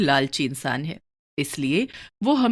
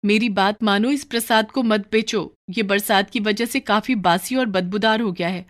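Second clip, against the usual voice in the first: lightly voiced worried wife; mildly urgent pleading, pitched slightly up; Lakshmi, warning; 4 semitones higher than usual. Wife warning husband against stale prasad, mildly urgent.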